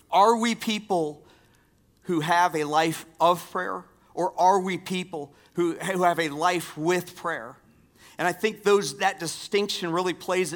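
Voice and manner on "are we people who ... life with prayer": higher and louder, pressing the question; emphatic asking. Real, not acted. Pastor presses the question on the congregation, louder. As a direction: challenge the congregation with it.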